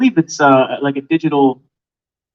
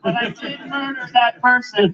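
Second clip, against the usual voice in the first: high-pitched hammed-up confession; mock talking to oneself; 8 semitones higher than usual. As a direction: confess aloud to nobody, soap style. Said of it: "Yelling to yourself".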